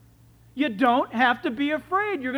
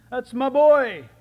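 proud laughing; 9 dB louder, slower than usual. Acted. Proud father line with laugh.

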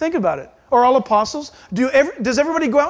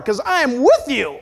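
higher, insistent reassurance; God's firm assurance; 4 semitones higher, 4 dB louder than usual. Acted. God assuring the doubting pastor he is there, firm. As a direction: drive the promise home firmly as God. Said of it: "That's how he talks to me".

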